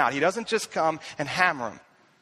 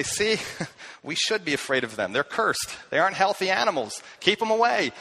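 joking self mockery. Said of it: "I look at this text and I say".

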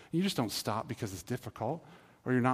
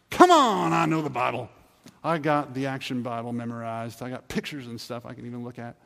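mock indignant; 5 dB louder than usual. Churchgoer bragging about knowing the Bible, mock indignant burst. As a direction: scoff like it's beneath you. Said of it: "the last one is".

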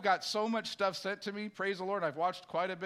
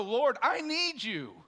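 1 humble plea; 4 semitones higher, 4 dB louder, slower than usual. Retold or imitated. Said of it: "You're gonna go".

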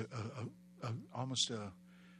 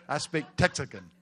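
laughing; 8 dB louder than usual. Real, not acted. Laughing punchline.

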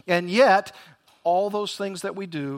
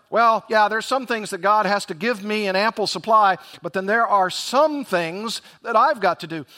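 self-reliant believer; 3 semitones higher, 4 dB louder than usual. Retold or imitated. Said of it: "Beware of".

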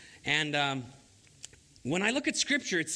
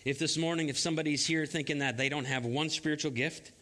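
prayer; 3 semitones lower than usual. Real, not acted. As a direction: pray gently over the congregation. Pastor leads prayer.

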